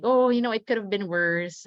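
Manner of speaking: lightly acted minimizing of someone's trouble; mock dismissive. Daughter giving an example of invalidating her mom, dismissive.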